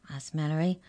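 plain reading voice

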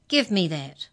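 loud, snatching demand; angry shout. Acted. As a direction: yell it at him, furious. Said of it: "Mallory shouted angrily".

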